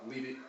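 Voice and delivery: level, monotone "leave it" with no rise; flat statement. Shown as a demonstration. Trainer to dog, a flat steady "leave it". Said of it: "I like to say it like a statement".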